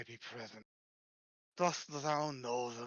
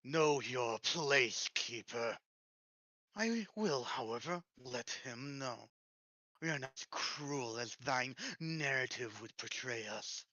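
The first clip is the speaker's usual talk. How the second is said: breathy voice. Acted. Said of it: "doing such a breathy voice".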